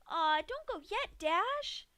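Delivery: high, whiny plea; pouting Pinky. A narrator's reading. Pinky begs fading Dash not to die, pouting. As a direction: coax her to stay awake.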